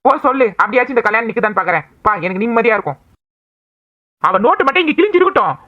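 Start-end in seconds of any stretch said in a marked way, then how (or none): 4.2-5.6 higher, menacing warning; angry threat. Acted. Brother warning sister over the torn notebook, angry threat. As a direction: threaten her hard.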